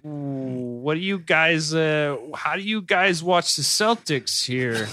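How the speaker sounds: lightly voiced drawn-out bro talk; hesitant, slow put-on dude voice; imitated Boston tourist. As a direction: stretch it out like a lost Celtics fan. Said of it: "And he's just like".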